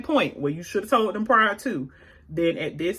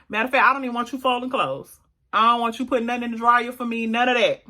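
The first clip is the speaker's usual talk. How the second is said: put-on talking to a child; 3 semitones higher than usual. Shown as a demonstration. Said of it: "you gotta talk to him like a child".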